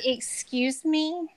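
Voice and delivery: high, very drawn-out affronted question; indignant retort. Acted. Co-host prompting friend's retort to a line-cutter, drawn-out indignation.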